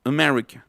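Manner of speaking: "America" with neutral first and last vowels; weak edges on "America"; schwa. Shown as a demonstration. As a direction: say "America" as "uh-MER-icuh". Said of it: "es pura schwa".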